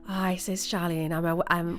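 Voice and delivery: lightly imitated Welsh accent. Retelling her practice call to Charlene, light Welsh accent. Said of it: "I did Welsh, and I was like".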